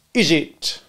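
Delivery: mistrustful cross-examiner; sarcastic, suspicious. Acted. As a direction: probe with heavy sarcasm. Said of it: "in his most sarcastic and suspicious manner".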